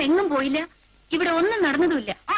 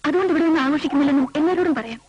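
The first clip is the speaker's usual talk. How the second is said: irritated retort; 6 semitones lower, 5 dB louder, faster than usual. Acted. Couple quarrel over hiding the incident.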